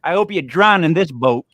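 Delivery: a hint of a feisty Italian guy; defiant Italian guy. Italian guy defies cannibals in a joke, mildly angry defiance. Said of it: "Italian guy grabs a fork and he goes".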